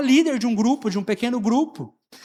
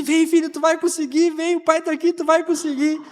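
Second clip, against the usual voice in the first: coaxing encouragement; 7 semitones higher than usual. Retold or imitated. Coaxing son out again.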